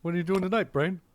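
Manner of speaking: high goofy cartoon voice; lightly voiced Pinky; Pinky impression. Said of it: "not doing a good impression".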